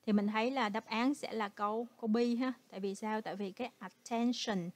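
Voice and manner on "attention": attention with the stress on TEN; stress on second syllable. Shown as a demonstration. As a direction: punch the middle syllable of attention. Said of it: "nhấn vần, vần hai".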